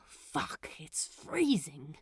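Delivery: whispered curse, teeth chattering; cold. Acted. Crowley shivering, complaining of the cold. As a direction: mutter it through the cold.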